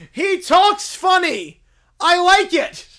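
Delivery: loud, gushing fan; excited fan. Acted. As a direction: rave about Jar Jar Binks. Bear gushes about Jar Jar.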